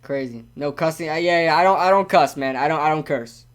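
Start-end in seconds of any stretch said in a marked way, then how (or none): 0.0-0.4 low, halting, holding back tears; getting emotional. Real, not acted. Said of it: "I'm getting emotional now".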